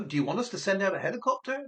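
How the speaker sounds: "helicopter" lifted as a question; question intonation. Shown as a demonstration. Operator asks Lucy about sending help, questioning. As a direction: ask it, rising at the end of "helicopter". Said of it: "intonation in Spanish is often a way of asking a question".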